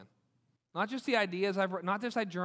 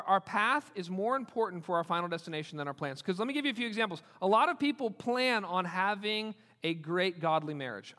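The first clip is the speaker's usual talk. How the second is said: ordinary talk, nothing marked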